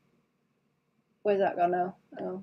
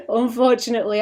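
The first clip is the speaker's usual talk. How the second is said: laughing; 3 semitones higher, 5 dB louder, faster than usual. Real, not acted. Joking to chat she can't go back to the cave, laughing. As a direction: laugh through "unfortunately".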